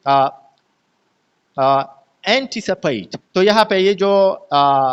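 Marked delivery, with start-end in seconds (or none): 2.3-3.2 slow एंटीसिपेट with सि and पेट left unstressed; unstressed syllable demo. Shown as a demonstration. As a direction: give no weight to सि and पेट in एंटीसिपेट. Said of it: "जो है ये unstress है". (एंटीसिपेट में सि और पेट पर ज़ोर नहीं)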